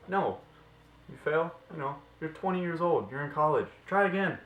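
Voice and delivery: high, loud rallying cry; emphatic shout. Real, not acted. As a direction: shout it like a coach.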